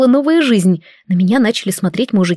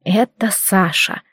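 hoarse croak; 3 dB quieter, slower than usual. A narrator's reading. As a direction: force it out hoarsely through anger. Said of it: "хрипло выдавила из себя". (хрипло выдавила из себя)

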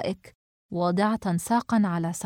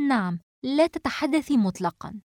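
mildly sullen, raised pitch; grumpy; 4 semitones higher than usual. Acted. Samar telling Najwa to keep silent, grumpy. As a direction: back the order with a touch of scowling reproach. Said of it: "سمر بتجهم".

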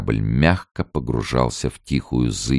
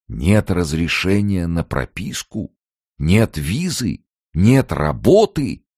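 slow, rising questions building louder; guard's surprise; 7 semitones higher, 4 dB louder, slower than usual. A narrator's reading. Gatekeeper echoes Morets' missing papers, slow rising surprise. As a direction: repeat each item in slow disbelief.

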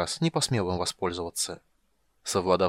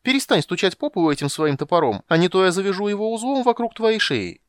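ringing shout; 9 semitones higher, 7 dB louder than usual. Acted. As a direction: yell it clear across the hall. Kender threatening the dwarf.

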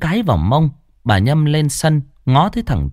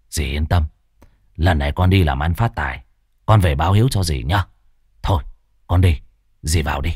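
wheedling nephew; 7 semitones lower, faster than usual. Acted. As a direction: sweet-talk the aunt for money. Nephew saying goodbye. (nài nỉ giọng trầm)

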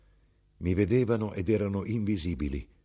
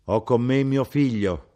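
mother speaking; 6 semitones higher, 7 dB louder than usual. Acted. Mother introduces her son at door.

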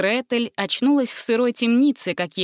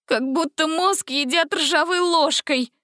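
higher whimpering complaint; 8 semitones higher than usual. A narrator's reading. Gretel whimpers about the singing, higher. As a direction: whine it in misery. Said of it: "скулила Гретель".

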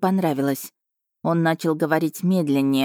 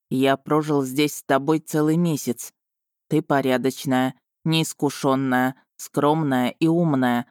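lightly voiced male dragon, slightly lowered, measured; admiring dragon Vargan; 3 semitones lower than usual. Dragon showers Marina with compliments, measured. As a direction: list her virtues slowly, one by one.

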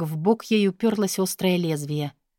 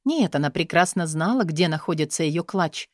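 usual speaking voice

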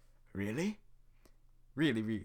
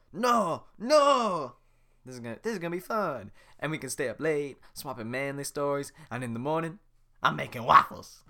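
excited Donkey; 4 semitones higher, 11 dB louder than usual. Acted.

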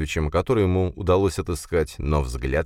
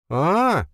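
higher, long dawning aah; drawn-out ah; 13 semitones higher than usual. A narrator's reading. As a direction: stretch the realization out. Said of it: "снова протянула Эшли".

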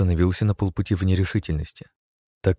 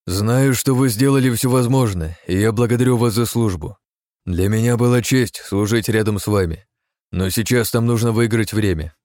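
solemn captain; 4 semitones higher, 4 dB louder than usual. Acted. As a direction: thank the crew with gravity. Captain's farewell speech to crew.

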